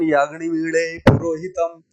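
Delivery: अग्निमीळे said with the soft retroflex ळ between l and ḍ; 1 Vedic pronunciation. Shown as a demonstration. Teacher shows students the Vedic ळ in अग्निमीळे. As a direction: say अग्निमीळे with the tongue flapped back for ळ. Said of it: "देखो ये उच्चारण".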